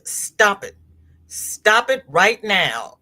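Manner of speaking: firm, mock-stern order; retold stern scolding. Michelle looks at her and scolds, mock stern. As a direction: land each word as a telling-off.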